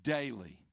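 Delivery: one word alone, firm and final; stress on daily. Shown as a demonstration. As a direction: Daily set apart, low and falling. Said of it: "please note the emphasis on the word daily".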